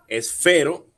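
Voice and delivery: "Esfero" más alto y fuerte en "fe"; fuerza en la E. Shown as a demonstration. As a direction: recalca la E de "fe" en "Esfero". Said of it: "tiene la fuerza en la E". ("Esfero" con la sílaba "fe" marcada)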